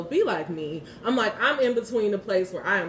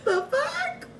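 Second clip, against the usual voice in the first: high, laughing near tears; exasperated laughing; laughing exasperation. Real, not acted. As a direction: laugh it off while worn out.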